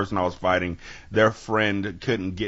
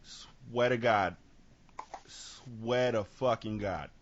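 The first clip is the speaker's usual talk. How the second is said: slow, stretched-out oath; kid's drawn-out threat; 5 dB quieter, much slower than usual. Acted. Kid held back swearing revenge, slow drawn-out threat. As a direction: drag out each word as a warning. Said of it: "so this kid is like".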